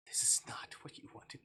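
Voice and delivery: breathy, whispered regret; hushed remorse. Acted. Captor apologising to Snow, whispered. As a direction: murmur the guilt close to her ear.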